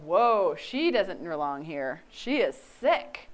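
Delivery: a touch of scandalized classmates; imagined classmates judging her, slow; imagined shocked peers. Retold or imitated. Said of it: "to realize".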